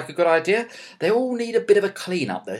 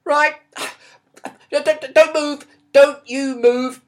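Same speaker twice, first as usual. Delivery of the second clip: stern order; 7 semitones higher, 6 dB louder, slower than usual. Acted. Dad orders son to freeze.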